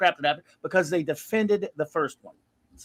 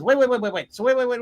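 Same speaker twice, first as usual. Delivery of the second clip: exasperated wait wait; 5 semitones higher, 3 dB louder, faster than usual. Retold or imitated. Exasperated interruption.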